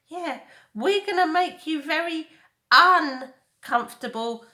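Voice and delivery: eager sidekick parroting; dim echoing bear. Acted.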